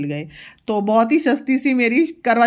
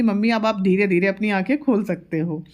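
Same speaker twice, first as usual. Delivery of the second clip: mother lightly imitating daughter's doctor voice; half-playful mock doctor, stress on आंखें; daughter playing doctor. Mother imitating daughter playing eye doctor after applying liner, lightly voiced. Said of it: "बोल रही थी कि".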